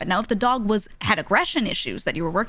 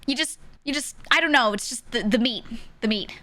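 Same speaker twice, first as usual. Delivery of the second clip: mock squeamish, higher and halting; queasy distaste; 4 semitones higher than usual. Wife explaining her disgust to husband, squeamish. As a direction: falter as if you can hardly name it.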